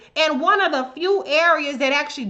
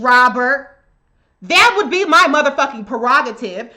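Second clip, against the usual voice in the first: heated rant; 2 semitones higher, 6 dB louder than usual. Real, not acted. Angry rant at a commenter.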